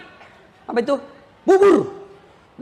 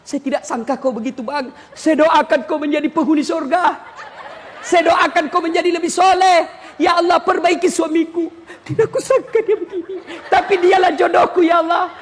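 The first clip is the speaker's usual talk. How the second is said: praying wife; 3 semitones higher than usual. Retold or imitated. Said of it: "marah sambil berdoa".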